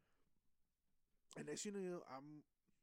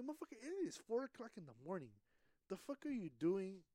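higher, exasperated telling-off; incredulous, voice pitched up; retold scolding; 4 semitones higher than usual. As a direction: demand what on earth they are doing.

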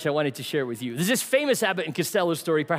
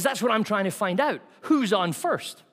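voicing Costello; 3 semitones higher than usual. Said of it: "Costello says".

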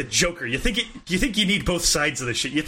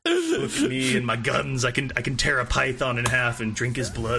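lightly voiced muscleman boast, lower pitch; mock braggart; 5 semitones lower than usual. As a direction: drop the pitch and mockingly show off. Mocking the other as buff braggart.

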